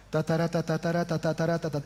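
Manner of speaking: flat droning ta-ta-ra-ta, lightly imitating a preacher reading his text; mock monotone sermon reading; monotone reading mimic. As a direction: hum out a lifeless reading rhythm. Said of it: "No modulaba la voz ni hablaba fuerte".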